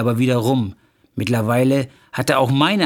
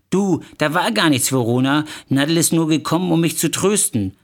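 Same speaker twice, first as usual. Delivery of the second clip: higher, hurried appeasing protest; placating; 4 semitones higher than usual. Acted. Husband excusing himself to angry wife, placating. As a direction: try to calm her down, voice raised in pitch. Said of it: "versuchte ich sie zu besänftigen".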